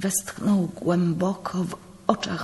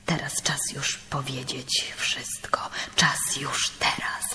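whispered urgently, close to the ear; secret whisper; 4 semitones lower, 7 dB quieter than usual. Acted. Priest whispering the news of war to his brother. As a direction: breathe it like a secret to guard.

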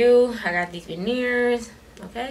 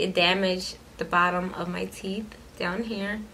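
fingers holding lip down; talking with lip stretched. Real, not acted. Seen 0: Both index fingers pull the lower lip down, showing her teeth.

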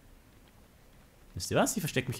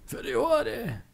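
battle cry; 13 semitones higher, much slower than usual. Acted.

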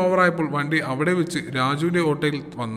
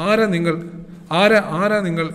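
higher, louder, alarmed asking who it is; startled demand; 3 semitones higher, 3 dB louder than usual. Acted. Husband shocked at a man answering his wife's phone, alarmed and higher. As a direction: jolt of shock at a stranger's voice.

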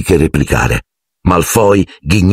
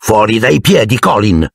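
angry shout; 4 semitones higher than usual. Acted. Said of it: "gli gridò Harry infuriato".

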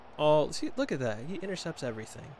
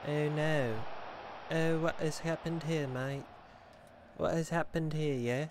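slow, level mock British-style accent; put-on British-style accent; slower than usual. Streamer reacting to what has happened, mock British-style accent.

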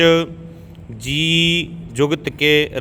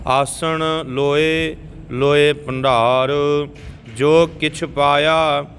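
careful teaching recitation in Punjabi; scripture recitation. Shown as a demonstration. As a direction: recite evenly, drawing out the long vowels.

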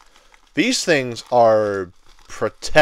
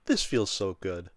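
soft, slow and lower; quiet satisfaction; 4 semitones lower, 8 dB quieter than usual. Real, not acted. Collector holding long-wanted figures, quietly satisfied. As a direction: savour it slowly, almost to yourself.

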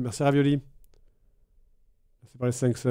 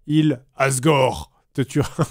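demonic voice; 4 semitones lower, much slower than usual. Retold or imitated. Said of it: "une voix démoniaque".

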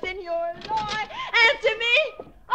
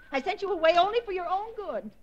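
ordinary delivery

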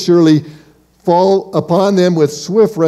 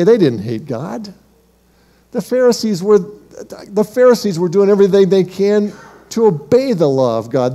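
higher-pitched, insistent defense of the Pharisees; protesting objector; 3 semitones higher than usual. Acted. Listener objecting to the preacher about the Pharisees, insistent protest. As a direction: protest on their behalf, pressing the point. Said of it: "You say".

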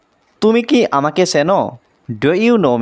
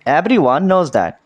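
very slow, each word spelled out for learners; slow model reading; much slower than usual. Shown as a demonstration. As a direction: say it slowly, word by word. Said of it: "slow model sentence for learners". (ধীরে ধীরে উচ্চারণ)

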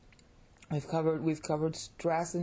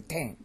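"tang" dropping like Mandarin fourth tone; falling pitch accent. Shown as a demonstration. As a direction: let tang fall in pitch. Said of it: "like fourth tone in Mandarin".

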